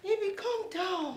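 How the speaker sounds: laughing. Acted. Drunk laughing.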